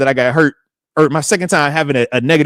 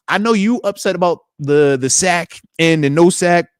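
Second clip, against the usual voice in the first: wife's sit-down; 4 semitones higher, 4 dB louder than usual. Retold or imitated. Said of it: "wifey had this, she had a nice sit down".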